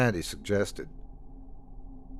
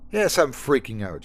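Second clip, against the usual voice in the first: spat; 3 semitones higher than usual. Acted. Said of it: "she spat".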